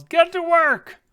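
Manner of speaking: very high, loud shout; yelled order. Acted. Dwarf ordering workers as he stomps away, yelling. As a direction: holler the command. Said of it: "he yells".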